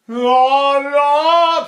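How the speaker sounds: loud, high drawn-back oh no; reverse sigh. Shown as a demonstration. Voice teacher demonstrating the inward reverse sigh, high and loud. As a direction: pull the sigh inward as you speak. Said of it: "if I sigh inward and backward".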